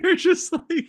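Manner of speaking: high, slurred through a stuck tongue; tongue on roof of mouth. Pretend. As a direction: talk with tongue pressed up. Mimicking frozen brain caller.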